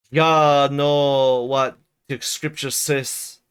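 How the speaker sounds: put-on pious old Joseph lecturing the girls, slow and stern; preaching old servant. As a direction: lay down scripture like a grim old preacher.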